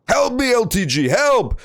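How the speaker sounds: high, loud cry for help; calling for help. Real, not acted. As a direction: yell out to chat for rescue. Stuck in water, calling chat.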